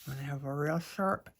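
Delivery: talking around a pencil held in teeth; pencil in mouth. Real, not acted. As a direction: speak with a pencil between your teeth. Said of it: "talking with pencil in my mouth".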